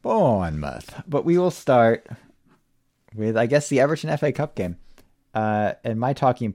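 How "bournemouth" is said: Bournemouth slowed, copying the Yorkshire way; Yorkshire accent try. Shown as a demonstration. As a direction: repeat Bournemouth with a drawn-out vowel. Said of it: "You have to do it in a Yorkshire accent".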